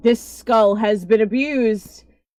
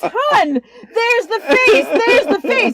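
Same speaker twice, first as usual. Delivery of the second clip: high, slow, tearful whimper; high whiny crying voice; 10 semitones higher, 4 dB louder, much slower than usual. Retold or imitated. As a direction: whine it out like a crying man. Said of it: "and he goes".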